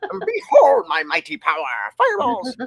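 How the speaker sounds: tiny, very high, swooping chipmunk voice. Praising a listener's character, repeating their line in the little chipmunk voice. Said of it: "I love the little chipmunk voice you did".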